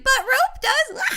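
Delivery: high squeal breaking into laughter; laughing panic. Retold or imitated. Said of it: "and she was like".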